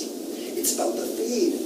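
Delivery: high-pitched surfer-dude douchebag storyteller. Acted. Teacher reading the narrator's story to the class, surfer-dude voice. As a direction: read it aloud as a surfer dude. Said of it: "in a kind of surfer dude, uh, douchebag, uh, voice".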